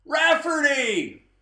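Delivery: loud, high, drawn-out call; blurted name. Retold or imitated. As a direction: shout the name out quick. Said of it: "they thought quickly and they said".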